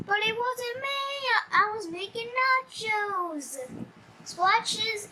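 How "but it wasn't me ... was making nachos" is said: high, pleading protest; protesting hero voice. Acted. Jailed hero pleads to the cops, high and whiny. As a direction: whine that you're innocent.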